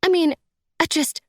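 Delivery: high, whiny crying-woman voice; tearful lament. A narrator's reading. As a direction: wail it very high, as if unable to stop crying. Crying stepmother describes a sad book.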